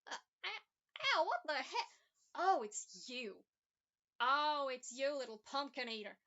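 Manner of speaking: a villain struck, then sneering at the little hero; mocking villain. Villain hit by bolt, mocking.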